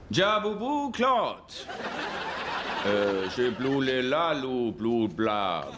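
fake French gibberish.

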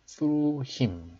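"through" begun with a TH sound. Shown as a demonstration. Teacher pointing out the TH in "through", slow pronunciation model. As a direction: draw out "through", starting on TH. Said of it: "자, 티에이치 발음".

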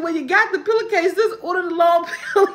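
high, fast laughing plea. Real, not acted. Telling her son to order the pillow, laughing. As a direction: push it out between laughs.

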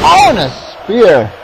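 high, drawn-out "Oh", then slow "spear"; excited match call. Real, not acted. Commentator calling a sudden spear, excited shout. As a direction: stretch the big move out, pitch up.

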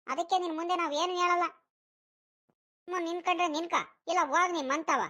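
a lightly voiced bossy village friend; scolding friend. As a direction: tell him off and rush the complaint. One actor plays scolding friend.

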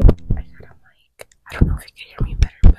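whisper. Real, not acted. Talking close to new mic.

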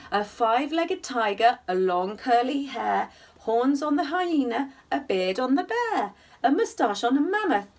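gentle sing-song bedtime reading; cosy read-aloud storytelling; story narration. A narrator's reading. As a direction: read it like a rhyming picture book for little ones. Reading rhyming verse aloud.

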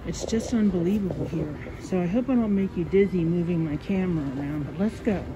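talking through a face mask; muffled, mask over mouth. Real, not acted. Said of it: "I'm gonna sound a bit muffled".

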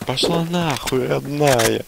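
медленно и с нежной издёвкой; протяни ласково, но с посылом; нарочито ласково-грубо. Shown as a demonstration. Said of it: "не так говоришь". (медленно, с издевательской нежностью)

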